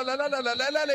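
can't believe the move, voice climbing; excited protest. Real, not acted. Commentator reacting to a skilled run. (اعتراض متحمس بصوت يعلو)

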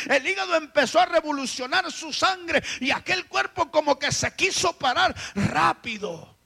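ordinary talk

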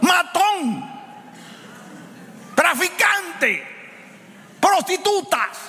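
high shouted denunciation; full-force preaching. Acted. Preacher condemning sympathy for criminals, shouting. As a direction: hammer each word like a verdict.

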